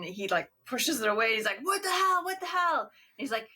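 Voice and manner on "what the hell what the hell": high, alarmed "What the hell?" said twice; startled outburst. Retold or imitated. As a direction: play Nick recoiling from his plate. Nick reacting to worms, retold.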